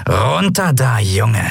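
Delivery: lightly growled order from a pirate; a hint of a growling pirate; pirate woman ordering the boy down with a growl. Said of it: "knurrte die Piratin".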